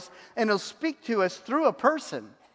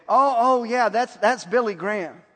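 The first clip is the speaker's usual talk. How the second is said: retold eager recognition; 3 semitones higher, 5 dB louder than usual. Acting out heckling lady's recognition.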